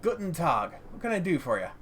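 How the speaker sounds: put-on light German accent, gruff but well-meaning; well-meaning German-accented greeting. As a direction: lightly play a gruff German junk dealer. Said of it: "heavily accented with German tonality".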